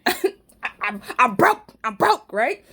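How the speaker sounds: laughing breathy confession. Real, not acted. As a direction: laugh while admitting broke. Admitting being broke.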